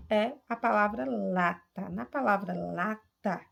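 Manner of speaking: "lata" with the LA pushed out; emphatic LA, lighter ta in "lata"; stress on LA. Shown as a demonstration. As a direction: lean on the first syllable of "lata". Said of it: "o lá se destaca mais".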